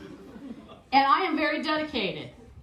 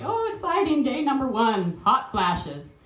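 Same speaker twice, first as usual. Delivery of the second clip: mock excitement; 2 semitones higher, 3 dB louder than usual. Mock advent calendar cheer.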